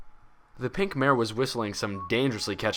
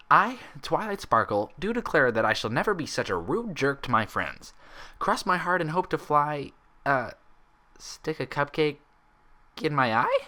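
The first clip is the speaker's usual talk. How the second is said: mock oath; 6 semitones higher than usual. Twilight swearing a silly oath to her friends, mock-grand. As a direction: pledge it pompously for fun. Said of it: "deep bow, mirroring Pinkie's stance".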